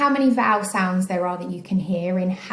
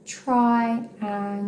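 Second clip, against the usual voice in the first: modelling the word; 3 semitones higher than usual. Shown as a demonstration. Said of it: "Try saying that word".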